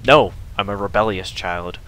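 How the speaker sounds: defiant no; defiant shout. Pretend. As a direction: shout it like a rebellious kid. Defying Toriel in game.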